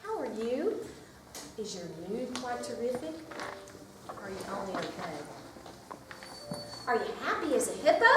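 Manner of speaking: lively picture-book read-aloud; reading to children. Acted. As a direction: read it to a circle of preschoolers.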